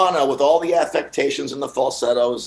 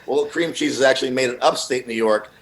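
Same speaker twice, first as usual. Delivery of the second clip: pedantic correction; 3 semitones lower than usual. Retold or imitated. Retold pedantic correction, quiet.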